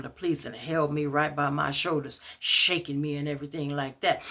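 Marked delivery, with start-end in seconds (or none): none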